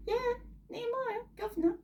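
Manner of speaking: high, excited reveal; excited aside. Real, not acted. Storyteller telling children, high and excited. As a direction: share the news with glee.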